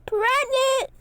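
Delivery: high, loud shocked shout; shocked yell. A narrator's reading. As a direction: yell the word in horror. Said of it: "yelled Lucky".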